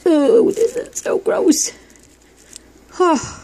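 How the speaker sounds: high, slow, loud groan of disgust. Real, not acted. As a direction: drag it out, truly revolted. Disgusted while handling goo.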